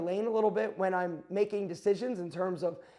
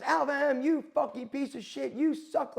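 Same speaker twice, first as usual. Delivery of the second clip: over-the-top loudmouth; 5 semitones higher than usual. Retold or imitated. Loudmouth watch guy insulting him on the interview, mock over-the-top rant. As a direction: imitate a ranting loudmouth in a raised pitch, volume held back. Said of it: "this loudmouth, over-the-top, like, person".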